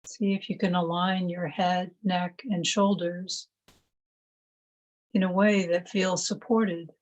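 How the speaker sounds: calm, measured meditation voice with long pauses; guided meditation. Acted. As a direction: gently guide them into stillness, one phrase at a time.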